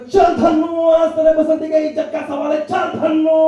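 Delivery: high, loud urging cry to the horse; Basanti urging Dhanno. Retold or imitated. Basanti shouting at her horse, high and loud. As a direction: spur the mare on in a high shout. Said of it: "Hema Malini का".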